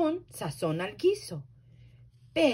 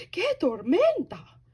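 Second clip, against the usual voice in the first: higher, louder bird cry; little bird voice; 9 semitones higher, 6 dB louder than usual. A narrator's reading. Bird exclaiming at the storm, high. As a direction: chirp it out like a small bird. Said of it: "Y Ave dice".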